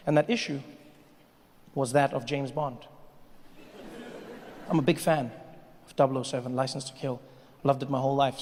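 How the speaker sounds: hushed confession. Real, not acted. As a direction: drop to a near murmur for a secret. Soft confessional stretch.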